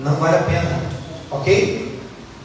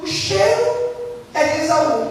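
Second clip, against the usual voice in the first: put-on old father sniffing; 8 semitones higher than usual. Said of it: "o pai falou assim".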